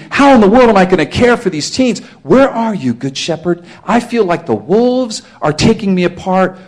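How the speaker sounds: a hint of a believer falling apart; desperate believer. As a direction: cry out to the Lord in distress. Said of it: "Here's an application".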